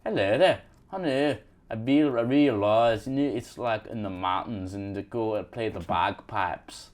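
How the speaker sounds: lilting mock Scottish accent; put-on British accent with a Scottish lilt; Scottish-tinged Cockney. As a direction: let it go up and down, Scottish style. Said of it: "feels a little Scottish-y".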